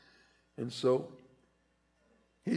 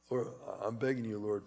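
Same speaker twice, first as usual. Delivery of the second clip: softer, hushed begging; soft pleading; 3 semitones lower, 7 dB quieter than usual. Retold or imitated. Paul begging the Lord, soft plea. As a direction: beg gently and low. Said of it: "he said".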